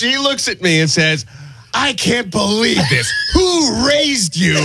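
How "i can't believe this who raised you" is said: high, scandalized imitation of a scolding woman; mock outraged yelling. Bar patron scolding two men over coat hooks, mock outraged. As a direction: raise the pitch and draw out the indignant question. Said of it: "And she's yelling at him".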